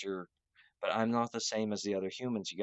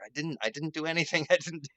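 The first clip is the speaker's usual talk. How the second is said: high, fast protest broken by laughs; laughing denial; 7 semitones higher, 5 dB louder than usual. Retold or imitated. Accused by people, laughing high fast denial. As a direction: deny it while cracking up. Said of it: "I'm like".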